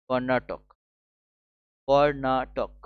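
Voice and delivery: drawn out syllable by syllable; slow dictation. Shown as a demonstration. Teacher spelling out a state name for students, slow dictation. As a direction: stretch the name out in separate syllables.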